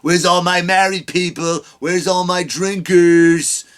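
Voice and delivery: slow, drawn-out crowd work; a lightly voiced comic working the room; mock crowd-work comic. Mocking a stand-up comic's crowd work, slowly drawn out. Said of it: "start a sentence as a comic".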